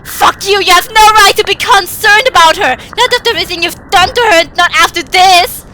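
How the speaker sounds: high, loud crying shout of rage; anger boiling over. Acted. Boy at the door screams at the father in fury. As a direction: yell through tears of fury. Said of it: "My anger boils over".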